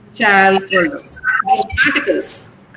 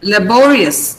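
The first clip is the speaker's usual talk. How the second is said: laborious with BO punched and lengthened; stress on BO. Shown as a demonstration. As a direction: hit the middle BO in "laborious". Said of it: "Yeah, bo".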